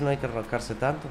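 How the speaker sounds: "enroscarse" thrown back with a rising, disbelieving tune; mock the advice by repeating it as a question; scoffing question tune on "¿No hay que enroscarse tanto?"; incredulous echo. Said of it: "¿Eso es todo lo que vas a decir?".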